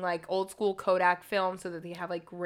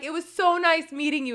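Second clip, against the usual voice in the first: gushing; 7 semitones higher, 6 dB louder than usual. Retold or imitated. Gushing goodbye acted out.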